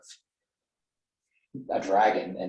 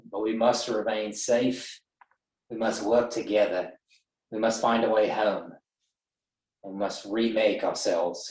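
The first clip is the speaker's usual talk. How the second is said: steadied, resolute. Acted. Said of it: "inhale and kinda reset".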